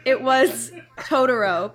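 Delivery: slow, laughing through the words; struggling not to crack up; stifled giggles. Real, not acted. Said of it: "trying so hard".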